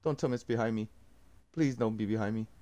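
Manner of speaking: soft, dreading plea; fearful hush. Real, not acted. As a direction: pray under your breath it's not there. Dreading enemy behind him.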